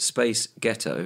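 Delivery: slow, drawn-out American "Space Ghetto"; a light American twang; American accent. Shown as a demonstration. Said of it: "in a slightly American".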